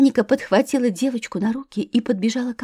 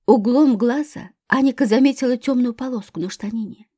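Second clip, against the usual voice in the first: ordinary delivery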